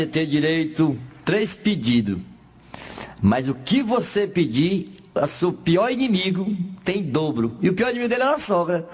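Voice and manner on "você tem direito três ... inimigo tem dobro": slow genie voice. Retold or imitated. Genie speaks slowly.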